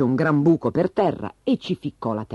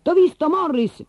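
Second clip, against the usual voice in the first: high, loud playful shout; 4 dB louder than usual. A narrator's reading. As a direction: call it out as you spot him in hide and seek. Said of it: "gridava subito qualcuno".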